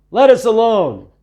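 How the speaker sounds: high, loud, strange demon cry. A narrator's reading. Demon in a churchgoer crying out at Jesus, high eerie cry. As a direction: shriek it like something unclean inside. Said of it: "crying out".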